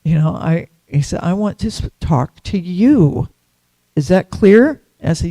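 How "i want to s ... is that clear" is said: slow, mock-stern repeat, stressing talk to you; a touch of the guru's anger, drawn out; stern retold rebuke. Guru repeating himself to a disciple, mildly stern.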